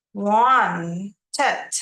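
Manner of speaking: Wanted ending in a full "tət"; clear ED syllable. Shown as a demonstration. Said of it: "Ini dibacanya wanted".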